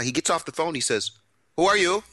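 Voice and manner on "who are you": put-on surprised, in a thick Israeli accent; startled Israeli asking, Israeli accent. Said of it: "he's got this thick Israeli accent".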